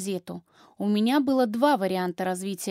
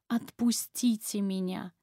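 softer, slow pleading; hoarse whisper plea; 5 dB quieter than usual. Acted. Exhausted wife whispering plea to husband. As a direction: beg quietly, voice spent from shouting. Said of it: "и я шепчу".

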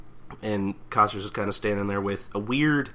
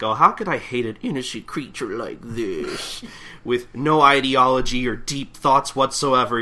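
gushing defence; 4 semitones higher, 7 dB louder than usual. Acted. Katsura defending his innocent creature, hammed-up gushing. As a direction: defend a beloved pet with mock innocence.

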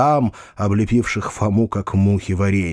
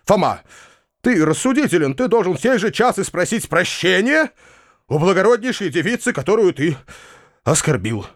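higher-pitched, earnest insistence; firm insistence; 7 semitones higher than usual. A narrator's reading. Uncle demands Foma apologise to the girl, firmly. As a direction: press the demand, pausing between phrases. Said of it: "с твёрдостью отвечал дядя".

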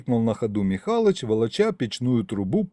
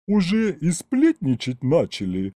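sighing kikimora; 5 semitones higher than usual. Acted. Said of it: "вздохнула она".

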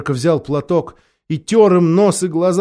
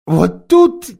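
heavy sigh; 5 dB louder, much slower than usual. A narrator's reading. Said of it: "с глубоким вздохом".

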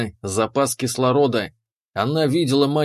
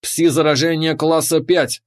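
alarm warning; 3 semitones higher than usual. Acted. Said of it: "заорала сирена в шлеме".

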